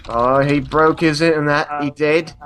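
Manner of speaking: lightly hammed-up British accent; bad British accent. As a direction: put on a mock British voice. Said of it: "my bad British accent".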